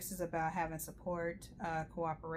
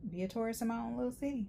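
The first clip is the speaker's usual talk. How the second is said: excited; 6 semitones higher, faster than usual. Real, not acted. Excited about touring her city.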